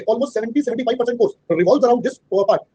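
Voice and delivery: very slow, word by word dictation; dictating a definition to students. Shown as a demonstration. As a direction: spell it out slowly for notes. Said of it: "dictating note".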